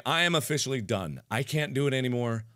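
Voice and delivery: defeated mumble. Real, not acted. Giving up.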